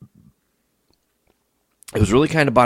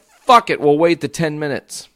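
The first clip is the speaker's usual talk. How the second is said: high, loud throw-up-your-hands cry; exasperated outburst; 6 semitones higher, 6 dB louder than usual. Retold or imitated. Customer giving in to another wait, loudly exasperated. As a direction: burst out loudly, giving in against your will.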